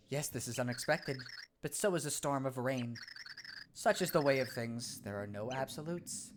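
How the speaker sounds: soft, measured sage voice; calm wise pixel. Acted. Pixel answering the startled Cragnon, calm sage voice. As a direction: speak like a serene little oracle.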